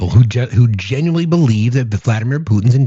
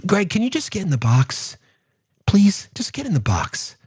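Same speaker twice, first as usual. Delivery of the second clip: exasperated whisper; 5 semitones higher, 3 dB quieter than usual. Real, not acted. Whispering to a chat troll to get in the box. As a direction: hush it like a weary last request. Pleading with chatter to leave.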